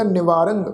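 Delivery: ਨਿਵਾਰੰ with nasal final ਰੰ, whispered; nasal ending. Shown as a demonstration. Teacher whispers ਨਿਵਾਰੰ to show its nasal ending. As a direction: breathe ਨਿਵਾਰੰ with a nasal end. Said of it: "ਨਾਸਕ ਉਚਾਰਨ ਹੋ".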